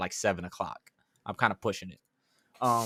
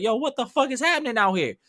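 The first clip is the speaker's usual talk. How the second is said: high-pitched retold outburst, only mildly raised volume; mock yelling; 9 semitones higher than usual. Driver yelling at friend Tuck after the swerve, mock yell. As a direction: re-enact yelling in disbelief. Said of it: "yelling at my friend Tuck".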